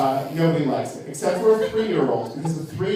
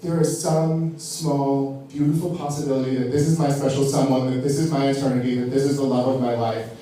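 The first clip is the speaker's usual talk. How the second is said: dreamy inner thought; 3 semitones lower than usual. Retold or imitated. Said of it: "I think to myself".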